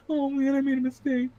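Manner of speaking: small high-pitched Southern lament; Southern accent. Acted. Man regretting his mistake, high Southern accent. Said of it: "he's Southern in that, uh, interpretation".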